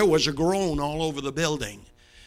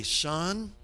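mock sweet; 5 dB quieter than usual. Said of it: "very sweetly you say".

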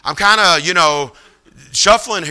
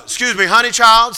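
high, louder sassy lady voice; pitched-up "honey child" summons; big lady; 7 semitones higher, 5 dB louder than usual. Retold or imitated. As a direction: imitate a big woman politely butting in. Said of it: "this big lady comes up".

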